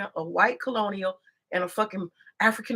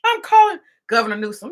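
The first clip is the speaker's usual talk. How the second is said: mock politician; 7 dB louder than usual. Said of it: "political theater for".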